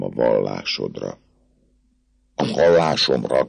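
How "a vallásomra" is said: mild exclaim. Acted. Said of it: "kiáltott fel a kapitány".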